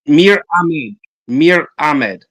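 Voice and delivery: "Mir Ahmed", one-syllable Mir, falling; deliberate, separated "Mir Ahmed"; demonstrated pronunciation. Shown as a demonstration. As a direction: model "Mir Ahmed" twice for a learner. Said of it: "listen to me carefully".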